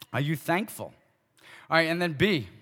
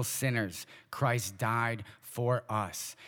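slow tender reading; 4 semitones lower, 4 dB quieter, much slower than usual. Acted. Reading Romans slowly.

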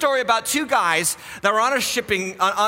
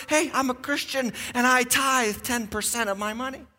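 softer, unworried reply; totally calm; 4 semitones higher, 4 dB quieter than usual. Acted. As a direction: play the unbothered man, easy and softer. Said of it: "He is totally calm".

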